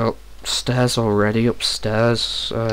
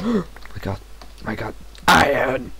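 excited; 3 semitones higher than usual. Real, not acted. Finding iron in the game.

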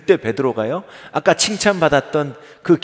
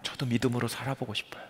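struggling believer; 3 semitones higher than usual. Acted. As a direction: voice a worn-out believer pleading with the pastor, rising into a cry. Preacher voices a struggling believer.

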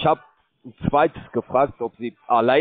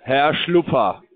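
gespielt förmlich; 2 semitones higher, slower than usual. Pretend. Mock-formal name for listener.

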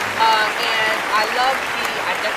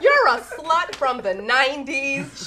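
fed up; 3 semitones higher, slower than usual. Retold or imitated. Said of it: "She was so fed up".

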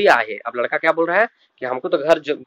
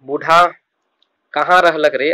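put-on raised call for the old man, a touch louder; grandmother calling out; 4 dB louder than usual. Grandmother calls out to the boy asking where grandpa is, a touch louder. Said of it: "नानी पूछ रही है".

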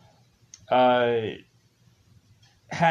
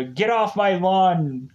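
put-on grumpy old man; 5 semitones higher, slower than usual. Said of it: "Clint Eastwood going on".

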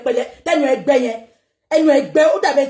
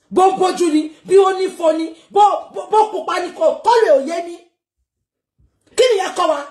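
angry outburst; 5 semitones higher than usual. Real, not acted. Angry rant about the T-shirt.

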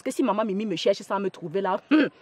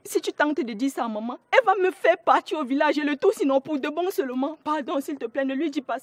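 anxious pleading; 4 semitones higher than usual. Acted. Begs Alice not to tell mother.

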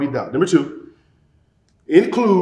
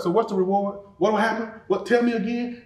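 higher, eager questioning; victory mindset; 5 semitones higher than usual. Acted. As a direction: press keenly to hear the reward once more. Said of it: "see what a victory mindset sounds like".

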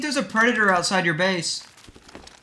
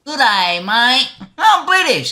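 mock British accent; 3 dB louder, slower than usual. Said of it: "Trying to figure out how to speak British".

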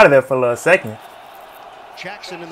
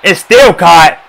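amazed shout; 4 dB louder, slower than usual. Real, not acted. Amazed at a caught pass.

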